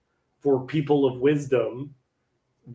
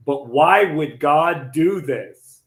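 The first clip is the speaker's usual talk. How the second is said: slow, loud imitation of bewilderment; drawn-out, emphatic mock plea; retold protest; 2 semitones higher, 5 dB louder, much slower than usual. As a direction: imitate a friend protesting, drawing out each word. Friend's protest retold before wedding.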